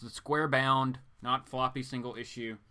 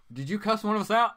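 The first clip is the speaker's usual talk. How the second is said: teasing; 8 semitones higher, 5 dB louder, faster than usual. Real, not acted. Teasing accusation.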